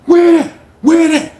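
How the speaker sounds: retold furious where that; demanding shout. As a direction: bark it at him, wanting answers. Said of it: "Slim was like".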